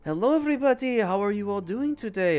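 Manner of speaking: shopkeeper greeting. Acted. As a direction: greet customers like a showy shop owner. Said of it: "he goes".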